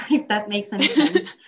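laughing lightly through the words; real amused chuckle while talking. Real, not acted. Guest jokes about her job title to the host, laughing. Joke about rolling with punches.

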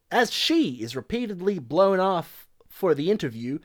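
put-on slight, wobbly Southern accent; attempted Southern accent. Podcaster reading review aloud, attempted Southern accent. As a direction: read it with a hint of Southern. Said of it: "Southern boy".

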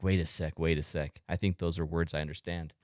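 low, soft thinking to oneself; hushed realization. Retold or imitated. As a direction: murmur it low as you catch familiar words. Retold inner thought while listening.

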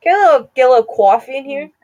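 fast, hammed-up Boston coffee order; Boston accent. Shown as a demonstration. Ordering coffee to mock the accent, Boston accent. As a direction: rattle it off with Boston vowels.

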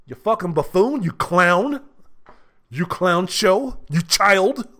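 mocking name-calling; scornful insults. Real, not acted. Calling the mockers clowns with scorn. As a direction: sneer each insult.

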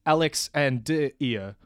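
"Deir" split slowly as "deh-ee-er"; slow "Alex and Deir" right down, pulling the last name apart; mock literal pronunciation. Shown as a demonstration. Debater mocking rival's new pronunciation, "Deir" pulled apart slowly. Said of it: "you wanted to change it to".

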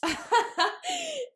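high burst of laughter; laughing. Real, not acted. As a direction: laugh at yourself. Laughs about nearly going bankrupt.

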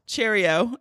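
lightly put-on British accent; badly faked British accent; terrible British accent. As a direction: toss it off in mock British. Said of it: "my terrible British accent".

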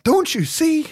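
high strained plea dropping to a slow whisper; intense Loomis impersonation. Retold or imitated. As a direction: act out an overwrought movie doctor, sinking into whisper. Acting out Loomis's intense pleading.

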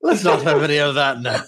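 quick attempt at an Irish accent. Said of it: "I'm Irish, aren't I?".

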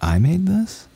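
high, astonished double-take; amazed disbelief. Retold or imitated. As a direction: marvel at your own cooking. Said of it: "I was like".

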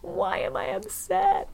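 high, slow, mock-hurt question; mock whiny boyfriend. Mimicking the crying boyfriend, high and slow.

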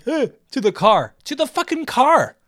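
high, loud mocking girl voice; mocking the girlfriend calling to the car. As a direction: shriek it like the girlfriend. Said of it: "she's going like".

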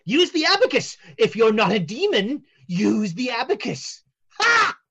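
challenging seer. Acted. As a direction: dare them to prove it. Fortune teller sets test.

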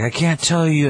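high-pitched, lightly hammed-up refusal; retold cornered henchman; mock frightened plea. Threatened poacher refuses to answer.

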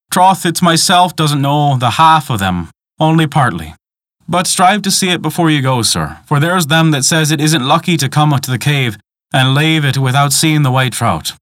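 a hint of an old Irish guide; old woman earnestly coaxing a visitor; lightly voiced old countrywoman.

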